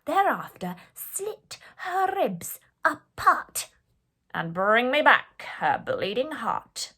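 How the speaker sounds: loud, slow, menacing commands; shouted orders. A narrator's reading. The queen shouting orders at the huntsman. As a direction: bark it slowly at the huntsman. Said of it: "She shouted at him".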